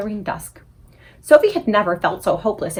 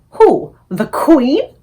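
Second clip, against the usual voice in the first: loud shocked cry, higher; aghast; 5 semitones higher, 8 dB louder, much slower than usual. Acted. Sophie aghast at the BFG's news, loud. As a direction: gasp it out in horror. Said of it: "Sophie cried, aghast".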